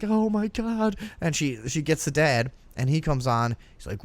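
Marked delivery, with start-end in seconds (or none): 0.0-1.0 higher-pitched imitation of a shocked mother; mock motherly dismay; appalled mom. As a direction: retell a mom's dismayed gasp of words. Voices mother appalled by drug confession.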